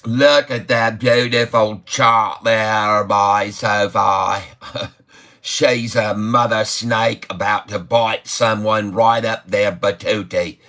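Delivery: lightly put-on Aussie twang; Australian accent. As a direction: play the excited Aussie market host. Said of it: "typing like the Australians a bit anyway".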